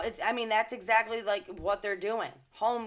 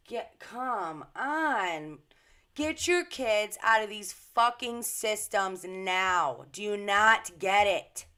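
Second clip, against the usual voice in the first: slow, emphatic and louder, driving each word home; slowed-down furious urging; angry outburst; 4 dB louder, slower than usual. Real, not acted. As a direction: plead with parents in real anger. Ranting at parents about school books.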